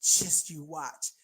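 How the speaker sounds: low, very slow "just you watch"; confident challenge. Retold or imitated. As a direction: imitate his cocky promise, drawn right out. Late husband's confident challenge, voiced.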